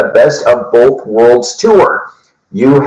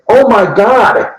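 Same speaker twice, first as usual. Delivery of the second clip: quoting the singer; 10 semitones higher than usual. Retold or imitated. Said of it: "He looked at me and said".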